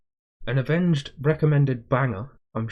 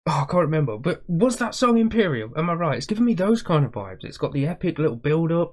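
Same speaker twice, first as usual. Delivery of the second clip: rising excited chatter; getting hyped about the song; 4 semitones higher than usual. Real, not acted. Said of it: "I'm getting excited".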